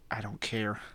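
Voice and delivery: breathy whispered aside, no voice. Real, not acted. Shrugging off critics in a whisper to viewers. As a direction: drop to a whisper for a throwaway line. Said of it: "I don't know why I'm whispering like this".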